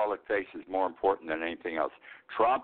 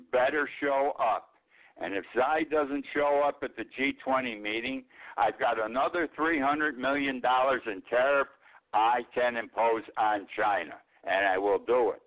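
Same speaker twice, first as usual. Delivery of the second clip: mildly raised, emphatic mock ultimatum; lightly imitated tough talk, words weighed out; imitated threat; 3 semitones higher than usual. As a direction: lay down a warning as a blustering politician. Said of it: "He says it in that tone of voice".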